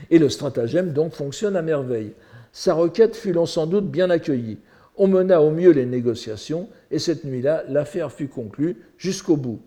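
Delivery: lively literary reading with lifted phrase openings; animated reading from a text; story read aloud. Acted. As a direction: read the tale out to an audience. Reads translated story aloud.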